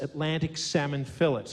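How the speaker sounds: "fillet" said FILL-it, Australian style; Aussie "fillet", rhyming with skillet; Australian pronunciation. Shown as a demonstration. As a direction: say "fillet" with a hard t, stressed at the front. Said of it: "that's how we'd say it".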